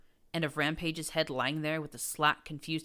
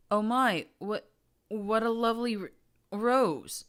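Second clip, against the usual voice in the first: frightened flattery; 7 semitones higher, 6 dB louder than usual. A narrator's reading. Terrified mare flattering captor.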